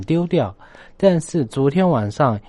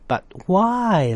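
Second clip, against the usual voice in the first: put-on child asking; 8 semitones higher than usual. Child asks again in story.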